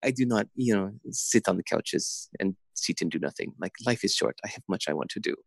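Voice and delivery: lightly imitated French accent; retold lines with a French lilt. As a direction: quote her in a soft French accent. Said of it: "in her French accent".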